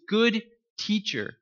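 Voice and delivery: a hint of a kneeling seeker's awe, drawn out; mild mock reverent address; reverent plea. Young man addressing Jesus, voiced.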